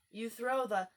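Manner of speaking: loud excited call; mock shout with a bound; Gryphon shouting. A narrator's reading. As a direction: shout it mid-leap. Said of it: "shouted the Gryphon".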